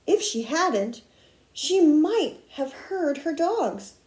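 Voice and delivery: put-on expressive read-aloud to children; story narration. A narrator's reading. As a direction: read a picture book with lively word emphasis. Reads a picture book aloud.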